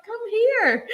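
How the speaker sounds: "Come here" sung out high and eager; eager beckoning. Retold or imitated. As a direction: call him over eagerly with a laugh. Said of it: "And I was like".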